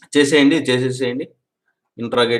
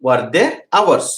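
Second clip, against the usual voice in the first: each word drawn out slowly for writing; slow dictation; much slower than usual. Shown as a demonstration. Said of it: "teacher dictating question slowly". (నెమ్మదిగా చెప్పే ప్రశ్న)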